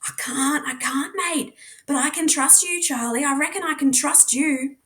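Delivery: a hint of a boy asking for trust in a hushed voice; lightly voiced Jasper, pleading. Jasper pleads softly with Charlie.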